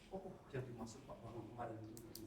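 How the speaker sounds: low, quiet murmur of sudden understanding; waking realisation. Acted. Student waking up recalls the teacher's point, quiet dawning realisation. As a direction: act out realising it softly, to yourself. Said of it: "pernah nggak Anda bangun tidur".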